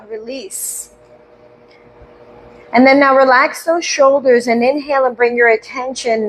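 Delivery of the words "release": barely voiced release, much softer; released on the exhale. Shown as a demonstration. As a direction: let the word float out on the breath. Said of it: "as you exhale".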